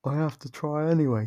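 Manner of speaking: high, loud mocking echo of the hunter; mocking imitation. Vampire mocks the hunter's earlier bravado, high and sneering. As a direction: parrot his brave words back in a sneering high voice. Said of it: "talk earlier?".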